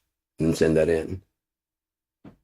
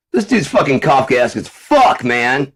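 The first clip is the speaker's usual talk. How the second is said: higher, louder dumb-guy voice; mock dude; 7 semitones higher, 4 dB louder than usual. Mocking a guy misusing Kafkaesque, dumb-guy voice. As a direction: play a guy who misuses big words.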